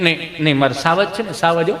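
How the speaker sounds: put-on soft coo to a child; soothing mother. Mother dusting off fallen child, soothing. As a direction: comfort the little one in a hushed voice.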